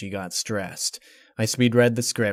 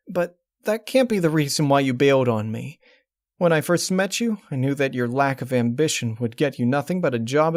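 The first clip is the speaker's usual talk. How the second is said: Twilight; 3 semitones higher, 3 dB louder than usual. Acted. Twilight accusing her ex.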